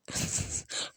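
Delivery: breathy laugh under the breath; stifle a laugh in a whisper; whispered giggle. Real, not acted. Amused by the punch through the door, whispered laugh. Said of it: "that's really funny to me".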